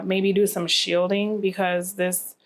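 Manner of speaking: ordinary talk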